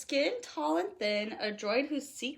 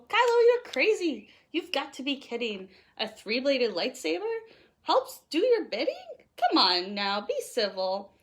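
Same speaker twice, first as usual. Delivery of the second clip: teasing scold; 3 dB louder than usual. Acted. Reader teasing Kylo about his three-bladed lightsaber, mock scolding. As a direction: scold Kylo like a fed-up friend. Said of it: "K is for Kylo".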